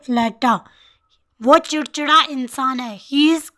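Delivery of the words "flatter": flatter, ending open, no d sound; flatter not flattered. Shown as a demonstration. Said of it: "Flattered नहीं बोलेंगे".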